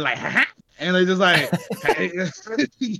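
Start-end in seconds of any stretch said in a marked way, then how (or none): 0.2-0.5 a quick, mischievous little snicker; imitating a movie gremlin's sneaky laugh. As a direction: snicker like a gremlin plotting something. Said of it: "snickering like a gremlin".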